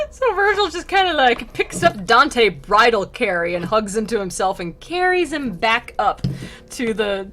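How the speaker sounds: amused giggly telling; laughing. Real, not acted. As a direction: still laughing while describing it. Laughing at bridal carry.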